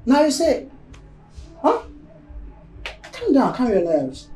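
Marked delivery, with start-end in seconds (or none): 0.1-1.8 loud, insistent reproach; exasperated scolding. Acted. Wife saying he would not listen, loud exasperated scolding.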